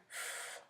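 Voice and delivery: soft, airy deep breath; quiet demonstration breath; low belly breath. Shown as a demonstration. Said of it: "We want it down here".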